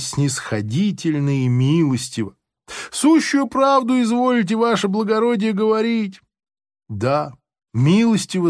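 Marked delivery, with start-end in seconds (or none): 2.9-6.2 fawning prisoner. Acted.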